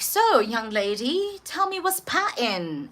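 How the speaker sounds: lightly voiced doctor, slow and drawn out; slow, inquiring doctor with a lilt; doctor's opener. Doctor asks a young patient about her problem, lightly acted slow inquiry. Acting out the doctor's opening question.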